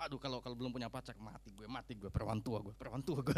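low, soft self-pitying lament; mock despairing moan. Preacher imitates a single unbeliever moaning about having no partner, mock despair. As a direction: groan comically that your life is over. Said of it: "ngomongnya gitu".

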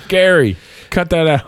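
high, badly faked English accent. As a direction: scold in a put-on English accent. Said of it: "I can't do an English accent".

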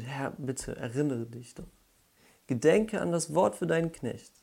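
begging God to remember, building up; pleading prayer. Retold or imitated. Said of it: "Das ist das, was er fühlt".

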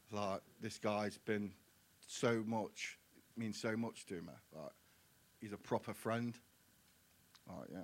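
holding back tears as you speak, fading at the end; real emotion, slowing and trailing off quietly; getting emotional. Real, not acted. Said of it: "Sorry, I'm getting emotional".

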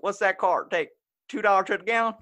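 high, loud Southern redneck ending in a hyuk laugh; Southern redneck on the porch asking about gas. Retold or imitated. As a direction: cackle like a redneck slapping his knee. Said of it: "the redneck sitting on the porch".

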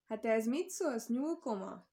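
drawn-out taunt at the hiding rabbit; mocking taunt. Fox taunting the rabbit in the tree, slow mocking jeer. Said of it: "csúfoldott a róka".

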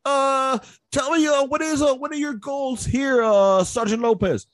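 put-on high, slow Vietnamese-accented question. Sergeant major asking Lopez about his goals, Vietnamese accent.

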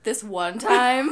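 slow, drawn-out lightly voiced storyteller; man telling the story. Friend imagining the man retelling it, slow mock storytelling. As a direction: lightly imitate someone launching into an anecdote. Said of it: "He's probably like".

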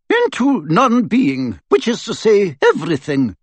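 measured professor. Acted. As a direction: recite the answer with care. McGonagall answering riddle.

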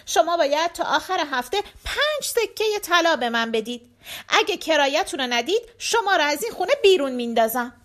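angry landlord. Acted. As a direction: demand it with contained anger. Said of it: "با عصبانیت از اونجا رفت".

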